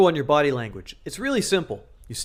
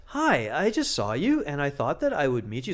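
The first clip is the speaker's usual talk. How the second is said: timid nervous opener. Shown as a demonstration. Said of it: "And so you sound like this".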